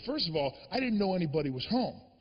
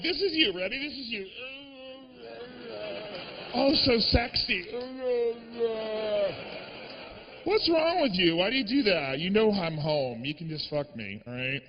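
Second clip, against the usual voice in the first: mocking girlfriend. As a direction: tease him, then get tender. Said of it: "she's like".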